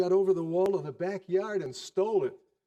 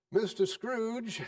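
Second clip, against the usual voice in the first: Bob's toast; 6 semitones higher, slower than usual. Acted. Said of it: "said Bob".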